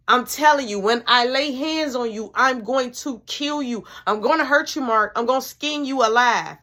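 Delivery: loud threatening mama. Retold or imitated. Mama threatening hidden Mark, loud and fierce. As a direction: promise a whipping out loud.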